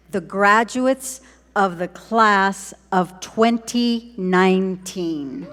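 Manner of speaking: slow, deliberate announcement of the class; slow, spaced-out ceremonial reveal; slow proclamation. Real, not acted. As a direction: announce it word by word at normal volume.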